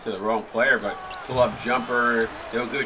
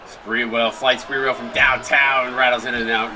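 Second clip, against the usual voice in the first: excited call; 5 dB louder than usual. Real, not acted. Three-point attempt called.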